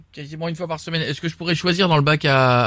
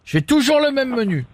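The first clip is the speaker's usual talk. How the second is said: higher pitched, slow outraged complaint; mock fury; 7 semitones higher than usual. Prank caller fuming to the McDonald's employee, higher and slow. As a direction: ham up the wronged regular customer. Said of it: "Je suis vénère".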